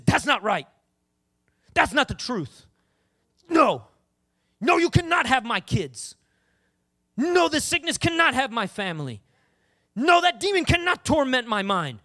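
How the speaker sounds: forceful, emphatic declarations; firm preacher's rebuke with punched words; defiant refusal. Acted. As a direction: stand your ground, hitting each NO. Voice inside refusing the attack.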